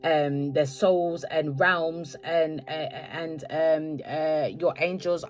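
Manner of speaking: halting, slowed speech tangled in fillers; losing the words and stumbling; stuttering. Real, not acted. Tarot reader to viewers, stumbling and slowed down. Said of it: "I'm stuttering".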